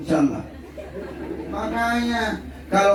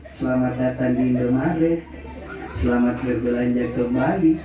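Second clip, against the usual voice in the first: meniru kasir; 6 semitones lower than usual. Retold or imitated. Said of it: "orang tersenyum memang nih".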